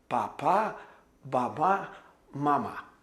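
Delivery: papá, babá, mamá as doubled syllables with pauses between; repeated first syllables. Shown as a demonstration. Teacher showing how babies repeat, papá, babá, mamá spaced out. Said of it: "Então eles repetem".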